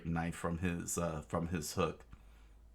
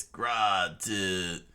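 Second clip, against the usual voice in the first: attack cry; 4 dB louder than usual. Acted. Luffy attack cry while punching.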